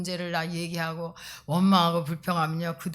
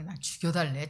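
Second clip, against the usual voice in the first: mock demand; 3 semitones lower than usual. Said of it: "막".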